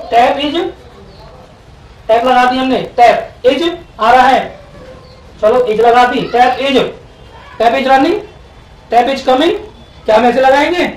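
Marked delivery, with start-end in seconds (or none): 0.1-7.9 slow building sentence. Shown as a demonstration. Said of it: "teacher builds sentence slowly".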